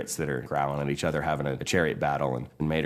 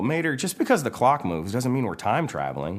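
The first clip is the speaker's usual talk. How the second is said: higher, insistent objection; lightly voiced character correcting a friend, higher; McQueen; 7 semitones higher than usual. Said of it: "McQueen's all".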